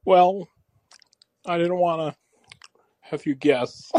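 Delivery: hesitant celebrity caller impression; George Lucas. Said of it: "this is George Lucas".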